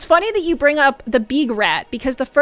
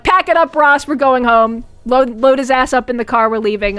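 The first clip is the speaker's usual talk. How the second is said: mock command; 5 dB louder than usual. Retold ordering to leave park.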